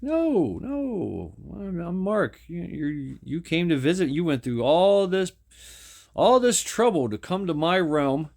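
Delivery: lightly voiced cheerful ancient being; eager god voice. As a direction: pitch it up like a lonely god glad of company. God Mark reassures Steve.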